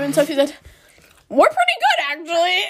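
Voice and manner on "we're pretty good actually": mocking imitation. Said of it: "That's not what I said".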